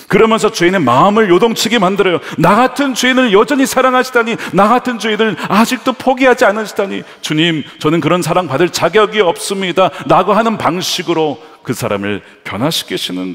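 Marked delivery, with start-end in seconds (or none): 2.4-9.9 high, loud moved exclamation; overwhelmed sinner. Retold or imitated. Sinner moved by undeserved love, loud and high. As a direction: pour out unworthiness in awe.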